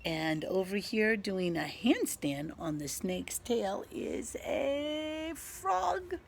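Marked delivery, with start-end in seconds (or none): 3.9-6.1 excited reveal. Shown as a demonstration. Revealing the frog.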